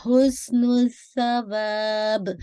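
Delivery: हुस्नुस सवाब slow with sa struck; slow model of हुस्नुस सवाब; clear sa. Shown as a demonstration. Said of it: "सा को hit twice कीजिएगा".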